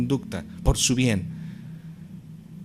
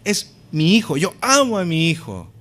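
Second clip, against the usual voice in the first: proud declaration; 3 semitones higher, 3 dB louder than usual. Retold or imitated. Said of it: "no tiene temor de decir".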